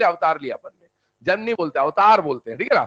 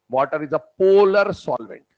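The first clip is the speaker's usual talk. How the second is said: slow dictation; much slower than usual. Shown as a demonstration. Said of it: "तो ध्यान सुनना".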